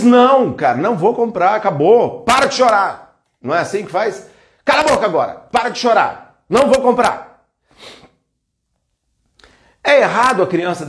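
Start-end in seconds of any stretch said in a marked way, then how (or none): 0.0-3.2 scolding parent. Retold or imitated. Parent refusing the crying child, firm scolding. 4.6-7.4 higher, stern parental telling-off; harsh scolding. Retold or imitated. Parent tells the crying child to shut up, stern scolding.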